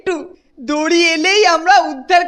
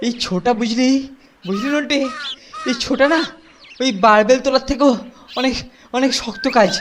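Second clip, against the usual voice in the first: winded, puffing between phrases; out of breath; 3 semitones lower, faster than usual. Acted. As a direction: still panting, catching breath. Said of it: "দম বেরিয়ে গেছে".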